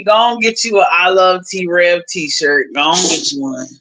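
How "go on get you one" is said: ordinary talk, nothing marked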